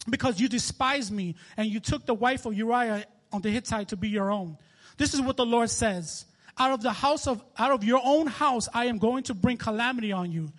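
declamatory reading of God's judgment; measured preacher's Bible reading; scripture reading. Acted. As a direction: read it out as a solemn pronouncement.

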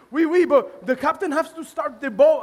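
put-on half-hearted French accent; poor French accent. Comedian quotes young first mate, clumsy French accent. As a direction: attempt a French accent and do it badly. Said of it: "I don't know how to do a French accent".

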